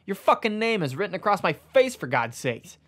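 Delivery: an angry book yelling in a coffee shop; too loudly. Acted. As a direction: let it burst out too loud. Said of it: "says this a little too loudly".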